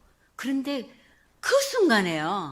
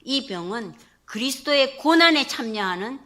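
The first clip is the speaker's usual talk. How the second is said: God's answer; 2 semitones higher, 5 dB louder than usual. Retold or imitated. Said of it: "이렇게 말씀하시니까".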